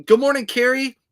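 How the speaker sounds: high, loud good morning; cheery greeting. Real, not acted. Vlogger welcomes a regular viewer, high and loud.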